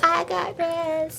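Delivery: slow, drawn-out gloating; mock villain gloat. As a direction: gloat it slowly. Voicing Amber's threat.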